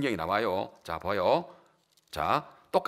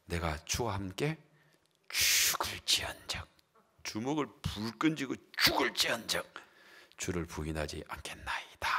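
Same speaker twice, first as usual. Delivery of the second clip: hushed whispered vow; 6 semitones lower, 10 dB quieter than usual. Acted. Peter vowing to Jesus he will never deny him, whispered. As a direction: vow it under your breath, clenched.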